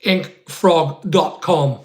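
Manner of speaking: "ink frog dot com" said slowly, each word set apart; slow it right down so chat gets it; slowly repeated. Shown as a demonstration. Repeating the web address slowly so viewers catch it. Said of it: "No, not Ink Fog".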